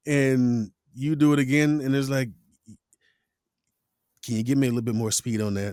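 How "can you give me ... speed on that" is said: director's repeated request. Retold or imitated. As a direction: imitate the director repeating it, quick and level.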